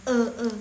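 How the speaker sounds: "e, e" as the bare vowel of ne; stressed e sound. Shown as a demonstration. Teacher isolating the vowel "e" for learners. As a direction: sound out "e, e" alone. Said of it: "penekannya lebih ke ne".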